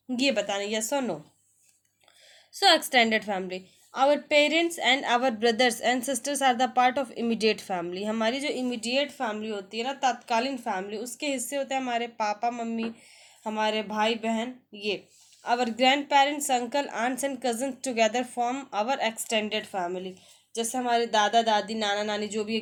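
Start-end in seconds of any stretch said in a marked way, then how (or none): 2.5-8.0 slow, careful English read-aloud; slow textbook reading. Shown as a demonstration. Teacher reading the family lesson to students, slow and deliberate. 15.5-20.1 slow, careful English read-aloud; slow textbook reading. Shown as a demonstration. Teacher reading the family lesson to students, slow and deliberate.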